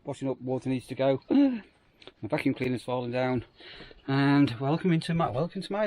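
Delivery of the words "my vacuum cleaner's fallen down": startled gasp. Real, not acted. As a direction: caught off guard by a noise. Gasps at a fallen vacuum cleaner.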